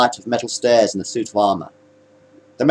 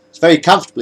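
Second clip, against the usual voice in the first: smiling; 6 semitones higher, 3 dB louder, much faster than usual. A narrator's reading. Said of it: "he smiled".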